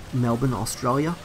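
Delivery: hammed-up Australian accent; badly faked Australian twang. Shown as a demonstration. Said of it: "that's the worst Australian accent".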